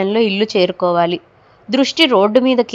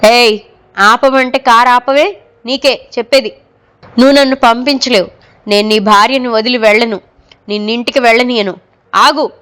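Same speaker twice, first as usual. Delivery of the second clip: mild ghostly menace. Acted. Ghost orders him to stop.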